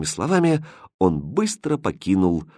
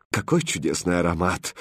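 dreamy; 4 semitones lower, 5 dB quieter than usual. Acted. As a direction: savour the scent. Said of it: "мечтательно протянула королева".

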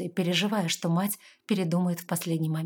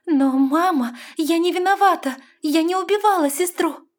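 much higher, loud pleading cry; desperate plea; 11 semitones higher, 9 dB louder than usual. A narrator's reading. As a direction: beg her to believe you. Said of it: "отчаянно завертела головой".

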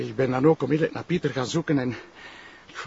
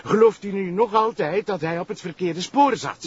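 angry accusation; 3 semitones higher than usual. Acted. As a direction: accuse him to his face. Sergeant confronts prosecutor angrily. (boze beschuldiging)

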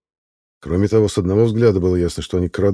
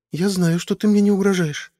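timid; 13 semitones higher than usual. A narrator's reading. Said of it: "робко сказала Медоуларк".

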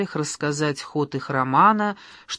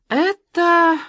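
soaring high, loud "это"; rapturous; 13 semitones higher, 7 dB louder than usual. A narrator's reading. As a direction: burst out in delight. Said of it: "в восхищении возвела руки". (восторженно, высоко)

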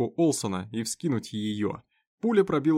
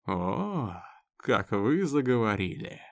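predatory sneer; slower than usual. Acted. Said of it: "хищно оскалившись".

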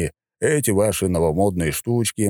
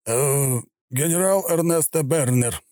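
flustered general; 8 semitones higher, slower than usual. Acted. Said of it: "явно сбитый с толку".

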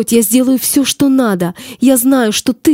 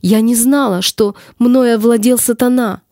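tragic heroine sorrow. Acted. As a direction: plead your lost cause, raised.

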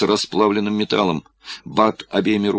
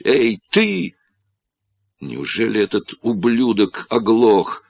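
shouting again and again; 5 semitones higher than usual. Acted. Corlis keeps yelling at the deaf operator, desperate shout. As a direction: scream for help, peaking on на помощь. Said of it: "кричал он вновь и вновь".

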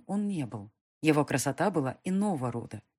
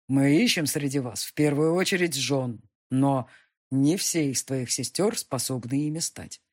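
louder, commanding demon emperor; 4 dB louder than usual. Acted. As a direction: lecture her like a ruler. Demon explains.

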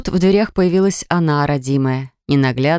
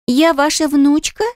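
put-on much higher, slow child's voice; little girl asking; 10 semitones higher, slower than usual. A narrator's reading. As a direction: ask wide-eyed like a small girl. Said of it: "вдруг спросила Надя".

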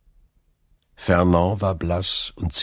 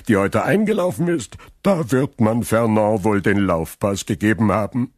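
put-on drunken Caderousse gossip; 3 semitones higher, 4 dB louder than usual.

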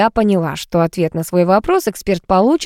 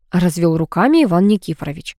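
ordinary delivery

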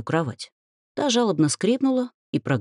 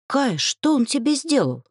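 alarmed; 10 semitones higher than usual. A narrator's reading. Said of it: "встревожилась Дриада".

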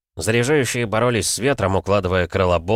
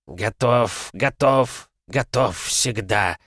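screechy bird voice; 3 semitones higher, much slower than usual. Acted. Windcaller creature answers.

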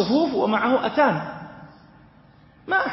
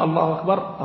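imam's takbir. Shown as a demonstration. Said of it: "قال الإمام".

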